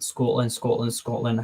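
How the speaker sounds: trying out a Scottish accent. Shown as a demonstration. Streamer attempts Scotland for chat, in a tentative Scottish accent. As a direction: warm up a Scottish accent on one word. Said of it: "let me do my amazing Scottish accent".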